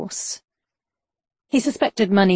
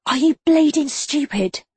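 scornful scoff; 8 semitones higher than usual. A narrator's reading. Billy scoffs at Lincoln's question.

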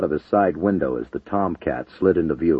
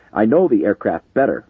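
raised voice over engine noise; shouting; 4 semitones higher, 6 dB louder than usual. A narrator's reading. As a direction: call it out urgently. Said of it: "Matthews shouted".

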